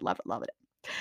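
soft whispered repeat, almost to herself; whispered gush. Real, not acted. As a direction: breathe the words out in a whisper. Gushing repeat, breathy whisper.

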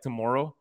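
imitating a Canadian "Tomorrow"; Canadian pronunciation. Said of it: "he goes like".

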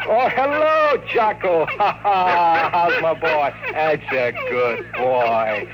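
high, affectionate greeting to a dog; fond pet talk. Real, not acted. Detective greeting his dog Jocko at home, high and fond. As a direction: coo over the dog like a happy owner.

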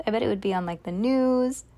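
ordinary delivery, nothing marked

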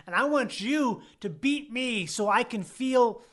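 hammed-up plea for a beating; comic challenge, playing to the laughs; mock confrontation. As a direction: demand it of a stranger, drawn out at the end. Acts out picking a fight.

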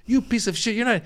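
high-pitched mock outrage; hammed-up insult, pitched well up; mock upset. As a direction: imitate an indignant online ranter. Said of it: "This guy's really upset".

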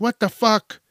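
high, loud yell at the dog; shocked shout. Retold or imitated. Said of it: "you're like".

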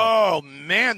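talking through a mouthful; words around a bite of chicken; mouth full. Real, not acted. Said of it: "you got a mouthful of Red Chick stuff".

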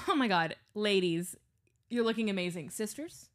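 mock flattering greeting. Shown as a demonstration. Flattering an older woman and her daughter, light gush. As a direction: gush at the ladies. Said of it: "older woman comes in with her daughter".

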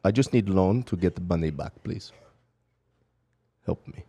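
low-pitched put-on Russian accent for a prank call; fake Russian accent. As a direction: play a pleading Russian caller with a thick accent. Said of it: "Well, I like the accent".

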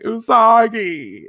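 long, high, loud sobbing wail; sobbing cry. Acted. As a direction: wail her name while sobbing. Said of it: "She's sobbing, full on hardcore sobbing".

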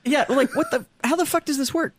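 high, laughing bafflement; laughing disbelief. Real, not acted. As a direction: laugh through the question. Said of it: "laughing disbelief".

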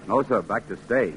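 ordinary talk

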